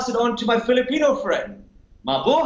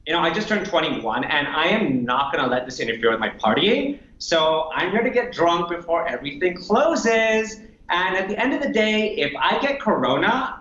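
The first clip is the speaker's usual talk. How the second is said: a lightly voiced carefree young American partier; a hint of a careless millennial; 4 semitones lower than usual. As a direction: shrug it off like a party-mad twenty-one-year-old. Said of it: "my American millennial".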